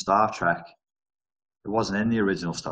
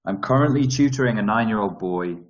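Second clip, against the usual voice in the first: mock Russian accent; 3 semitones higher, 6 dB louder than usual. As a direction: fake Russian accent, reading the question aloud. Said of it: "I'm titting around in a Russian accent".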